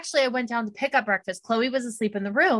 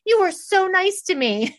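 gushing fan; 10 semitones higher, 4 dB louder than usual. Retold or imitated. Retold young fan's gushing thanks.

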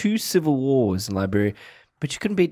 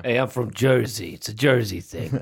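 put-on Jersey accent. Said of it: "what's a Jersey accent again".

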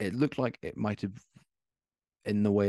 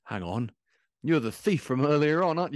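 sudden recognition; 8 semitones higher, 7 dB louder than usual. Acted. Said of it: "he looks at you and says".

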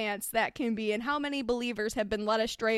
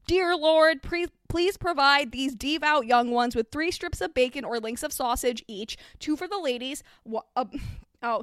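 screamed prayer. Acted. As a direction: shout it skyward like a preacher.

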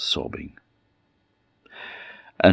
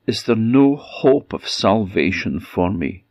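pleading; 4 semitones higher than usual. Acted. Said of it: "she pleaded".

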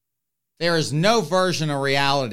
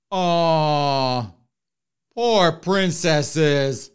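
slow mock pity, lightly sobbed; fake crying; much slower than usual. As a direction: coo it out in hammy fake sympathy.

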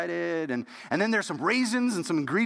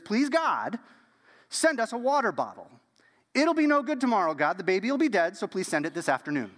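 put-on child's urgent prayer; 5 semitones higher than usual. Ten-year-old Ruth begging God for a water bottle, high and pleading. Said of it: "She says".

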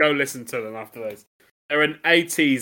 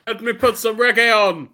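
lightly voiced reggae frontman; reggae band singer; 9 semitones higher, 9 dB louder than usual. Telling Keith to wind down, reggae style. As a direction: play a reggae band member. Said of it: "I was being a reggae band".

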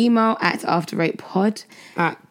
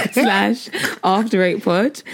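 laughing through it; slower than usual. Real, not acted. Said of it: "What's wrong with you?".

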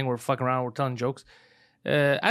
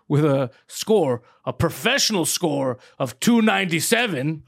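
announcer voice; slower than usual. Retold or imitated. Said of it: "And it goes".

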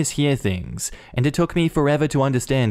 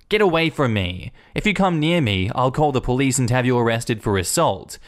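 growled; 2 semitones higher than usual. Retold or imitated. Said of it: "I growled at her".

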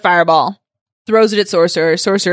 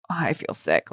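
imitated queasiness; 7 semitones lower, 11 dB quieter than usual. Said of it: "Lorne is even like".

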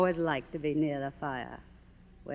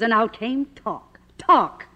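scornful; 4 semitones higher, 3 dB louder, slower than usual. Acted. Silent star mocking talkies, scornful. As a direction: spit out talk with contempt. Norma sneers at talking pictures.

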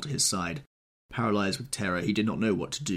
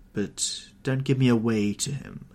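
higher, louder whining plea; 5 semitones higher, 6 dB louder than usual. Acted. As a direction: whine and beg. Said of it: "she whined".

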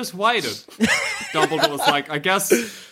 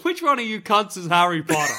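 shouting; 3 semitones higher than usual. Acted. Teacher shouts at class.

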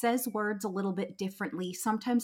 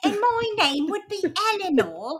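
put-on very high, louder old lady voice with a laugh; mock British old lady; 11 semitones higher, 6 dB louder than usual. Mock old British lady, introducing herself to co-host. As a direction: play a squeaky ninety-five-year-old Brit. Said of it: "I would always sound like this".

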